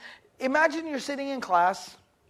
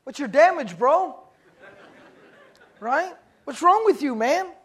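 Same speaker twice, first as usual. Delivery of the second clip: louder, annoyed, a touch of laughter; fed-up snap; 3 semitones higher, 5 dB louder than usual. Retold or imitated. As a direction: turn around and snap at the pest. Fed-up student turns around.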